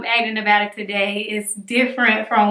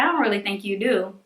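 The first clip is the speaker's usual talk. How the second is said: softer, quicker imitation of a quiet sister; imitated soft talker; 2 semitones lower, 5 dB quieter, faster than usual. Sister doubting the lump on the phone, imitated soft. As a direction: play down the news in a soft voice. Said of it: "she talks really soft".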